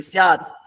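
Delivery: स्यात with the mouth closing on the त; स्यात with the त held shut; half t. Shown as a demonstration. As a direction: end स्यात on a closed, unreleased त. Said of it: "त बोलते समय मुंह बंद होना चाहिए".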